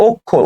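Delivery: "অক্ষর" said as ok-khor, doubled kh; demonstrated pronunciation. Shown as a demonstration. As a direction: show how "অক্ষর" sounds: ok-khor. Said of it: "উচ্চারণটা হবে হচ্ছে".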